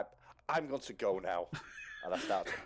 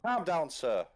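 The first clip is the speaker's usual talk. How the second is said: firm louder command; 8 semitones higher, 6 dB louder, slower than usual. Acted. Hubert tries calming Danford.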